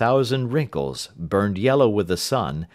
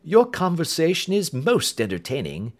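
amused; 8 semitones higher than usual. A narrator's reading. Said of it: "Holmes chuckled heartily".

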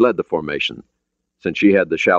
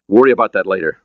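mildly sharp, louder interjection; 3 semitones higher, 5 dB louder, faster than usual. Acted. Ryan putting off Mancuso's questions, sharply. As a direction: cut the question off firmly. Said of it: "Ryan said sharply".

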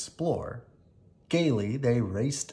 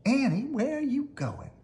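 calling out; 12 semitones higher than usual. A narrator's reading. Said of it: "called Melissa".

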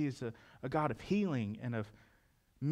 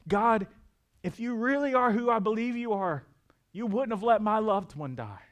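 high, loud, pleading cry to God; anguished plea; 6 semitones higher, 5 dB louder than usual. Retold or imitated. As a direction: cry out like a grieving believer. Voicing a griever's plea to God.

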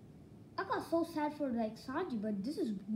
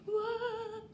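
surprised what; 10 semitones higher than usual. Real, not acted. Reacting to stepsister reveal.

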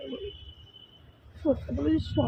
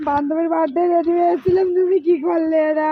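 wailing, tearful complaint; real upset, weepy voice; crying. Real, not acted. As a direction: protest the ruined plan through sobs. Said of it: "কান্না করো না".

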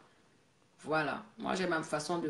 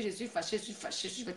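mocking sulky imitation; 7 dB quieter, faster than usual. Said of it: "Elle vient avec ses fâcheries".

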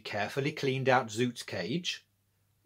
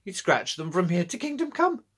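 put-on laughing old lady; 8 semitones higher, 4 dB louder than usual. A narrator's reading. Old lady laughing to Georgia about her fierce cat. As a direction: chuckle it out like a proud old granny.

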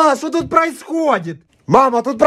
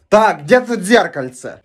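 usual speaking voice

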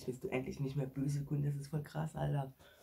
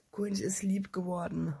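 whisper; 6 semitones higher, 6 dB louder, slower than usual. Pretend. Whispered repeat.

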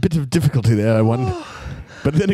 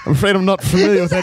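put-on English accent. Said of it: "He's actually good at this".

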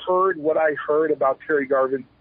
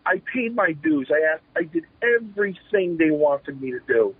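higher-pitched exasperated pleading; retold frustration; 5 semitones higher than usual. Wrestler pleads with his chief for a break, frustrated. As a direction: re-enact a frustrated plea. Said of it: "he'd see my frustration".

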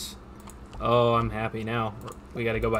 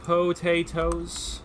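put-on Irish accent; 5 semitones higher, much slower than usual. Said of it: "that's more what I was going for".

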